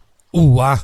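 loud, drawn-out cross exclamation; irritated yell. A narrator's reading. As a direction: burst out in exasperation at your daughter. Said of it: "ท่านผู้ให้กำเนิดตวาดเสียงฉุน". (ตวาดเสียงฉุน)

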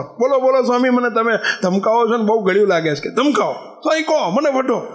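high eager pleading; pleading disciple. Retold or imitated. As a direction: beg the swami to scold him. Valero begs to be scolded. (ઊંચા સ્વરે આતુર વિનંતી)

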